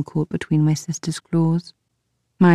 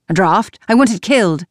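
hysterical outburst; 2 semitones higher, 4 dB louder than usual. Acted. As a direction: let the king snap, near hysterical. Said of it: "Darling, you sound hysterical".

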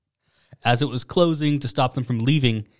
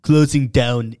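put-on brief, louder stab at a Russian accent; attempted Russian accent; 6 dB louder, slower than usual. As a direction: try a Russian accent, half-heartedly. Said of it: "say it in a Russian accent".

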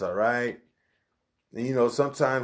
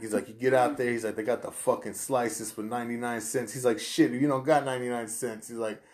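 impression of New York guy; 2 semitones higher than usual. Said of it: "I love your impression".

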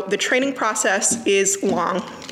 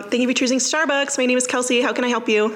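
light, chirpy barista greeting; lightly voiced cheerful barista; Starbucks drive-thru voice; 3 semitones higher than usual. Shown as a demonstration. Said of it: "Do you want me to do it?".

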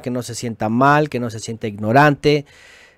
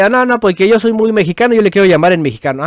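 mocking quote; 5 semitones higher, 3 dB louder, faster than usual. Mocking a proud objector.

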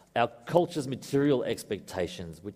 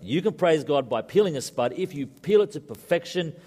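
put-on a touch of Scottish accent, pitched up and emphatic; 5 semitones higher, 3 dB louder than usual. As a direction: proclaim it like a Scottish missionary father, in his accent. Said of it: "It lends itself to Scottish accent".

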